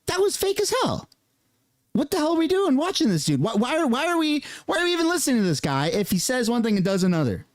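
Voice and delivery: hammed-up betrayed fan; mock outraged viewer. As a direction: react high and stunned, then rush it. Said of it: "You'd be like".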